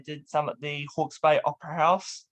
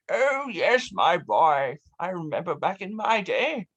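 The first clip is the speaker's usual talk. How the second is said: grandfather. Acted.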